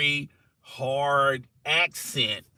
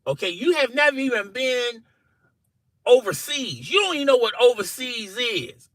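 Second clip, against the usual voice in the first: exasperated insistence, climbing higher as it goes; arguing; 5 semitones higher than usual. Retold or imitated. Arguing with Jack that he's not Scottish, increasingly insistent. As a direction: build from level to high-pitched protest. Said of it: "I'm up here arguing with Jack".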